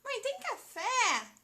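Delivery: high, loud, slow calls, fé held long; calling for mom. Retold or imitated. Teacher acting herself begging mom for coffee, loud calls. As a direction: call out twice to mom, pleading a little. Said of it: "Eu grito".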